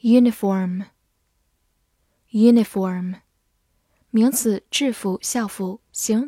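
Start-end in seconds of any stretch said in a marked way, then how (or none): 0.0-3.2 slow, clear vocabulary drill; slow drawn-out. Shown as a demonstration. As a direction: stretch each syllable slowly. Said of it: "vocabulary review read-out".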